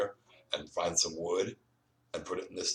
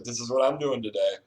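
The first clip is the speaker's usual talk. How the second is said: higher and louder, triumphant; proud declaration; 6 semitones higher, 7 dB louder than usual. Retold or imitated. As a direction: announce it like a victory. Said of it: "and I was like".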